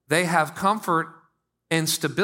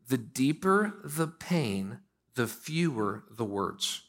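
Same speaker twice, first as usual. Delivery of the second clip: hushed principle; 4 semitones lower, 7 dB quieter, much slower than usual. Shown as a demonstration. Principle delivered softly and slowly.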